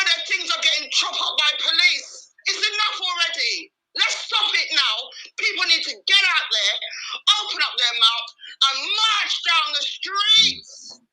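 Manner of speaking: crying out, slowing right down as the shout grows; a sob-choked rallying cry to march; tearful shouting. Real, not acted. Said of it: "I'm not gonna apologize for shouting".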